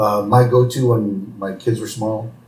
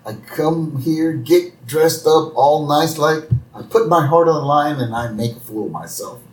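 lightly voiced Moe, self-pitying; a hint of Moe feeling sorry for himself; 5 semitones higher than usual. Rejected Moe whining to Marge, mildly voiced. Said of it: "And Moe's like".

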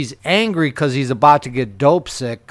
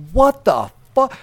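high, slow, incredulous what the fuck; stunned disbelief; 9 semitones higher than usual. Retold or imitated. The driver retelling his disbelief at the passenger's fart, high and slow. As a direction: drag it out in total disbelief.

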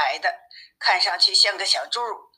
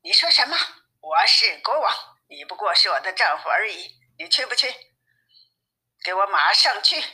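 loud shout. Acted. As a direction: shout him down as the queen. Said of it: "妻子大声喝道". (妻子对丈夫大声喝令)

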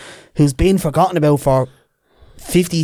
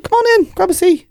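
high-pitched, breezy invitation; mock-cheery pub welcome; eager welcome. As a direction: wave them in with a lifted voice. Acted welcome to travellers at door.

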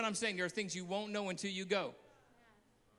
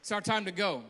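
louder take; 5 dB louder than usual. Shown as a demonstration. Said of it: "Somebody shout".

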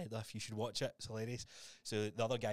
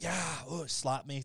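imitated hype; 4 semitones higher, 4 dB louder, much slower than usual. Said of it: "see the whole, like".

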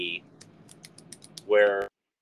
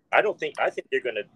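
heated retelling, rising higher and louder toward the end; pissed off; 4 semitones higher, 4 dB louder than usual. Retold or imitated. Shark expert warning the mayor who won't listen, mock pissed off. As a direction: imitate a fed-up outburst, building as it goes. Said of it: "he's getting really pissed off".

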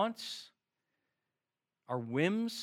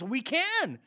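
higher, eager little yes; youthful enthusiasm; 5 semitones higher than usual. Retold or imitated. Disciples answering Jesus, eager and youthful. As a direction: chirp it like an eager kid. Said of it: "this youthful enthusiasm comes forward".

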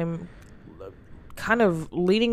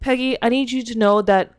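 urgent raised voice; 5 semitones higher, 4 dB louder than usual. Acted. Caller yelling at Margaret.

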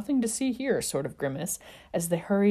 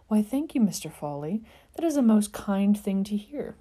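prim gentleman; 5 semitones higher, 3 dB louder than usual. Acted. Sirius's vacant prim voice.

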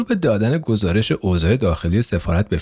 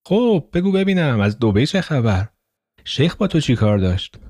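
a touch of excitement; 4 semitones higher than usual. Acted.

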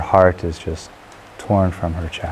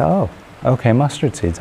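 higher-pitched, lightly acted eagerness; hopeful agreement; 5 semitones higher than usual. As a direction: take on the task readily. Woman hopefully accepts the task.

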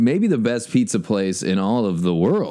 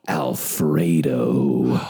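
slow gasp, then the name; shocked gasp; 8 semitones lower, much slower than usual. Pretend. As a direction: gasp like a mobster just walked in. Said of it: "like, a scary mobster guy just walked in".

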